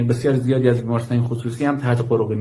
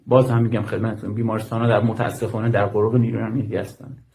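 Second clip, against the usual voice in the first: gentler, slower repeat. Real, not acted. Medical worker restating that hospitals are under security control, gently and slowly. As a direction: repeat it gently, taking more time. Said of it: "یکم آرومتر این صحبت بکنم".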